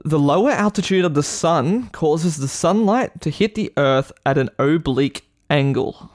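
slow careful read-aloud; reading aloud slowly. Shown as a demonstration. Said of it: "Can you read it one more time?".

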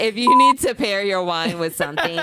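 firmly reclaim the floor. Real, not acted. Insists on finishing after interruption.

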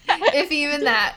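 slow, laughing confession; real laugh through the words; laughing admission. Real, not acted. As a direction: admit it while breaking into laughter. Admits they barely planned.

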